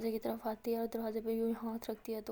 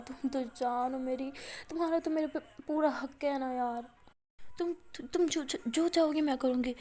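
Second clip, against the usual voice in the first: crying; 3 semitones higher than usual. Acted. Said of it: "رونے لگ جاتی ہے".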